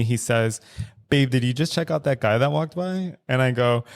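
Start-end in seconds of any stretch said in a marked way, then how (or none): 1.1-3.2 lightly voiced teasing partner; a hint of playful, loving teasing; retold with mild playful warmth. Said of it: "very f-, playfully, very lovingly".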